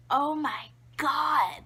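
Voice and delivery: slow, high, loud mock horror; astounded mom. Mom hugged by her poop-covered baby, astounded. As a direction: stretch it out like an aghast mother. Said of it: "she's astounded".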